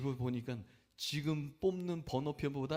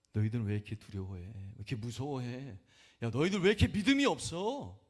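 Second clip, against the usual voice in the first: rebuking; 5 dB louder than usual. Retold or imitated. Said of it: "라고 책망하세요".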